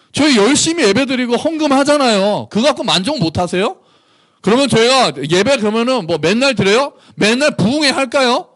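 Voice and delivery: high-pitched, whiny string of challenges; indignant protest. Acted. Modern churchgoers protesting to God about their offerings, indignant. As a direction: argue back, each question lifting in complaint. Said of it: "이렇게 얘기하고 있는 거예요".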